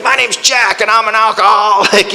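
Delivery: obnoxiously booming impression of an alcoholic; loud, obnoxious man. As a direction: imitate a loudmouth barging through the door. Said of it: "He was loud. He was obnoxious".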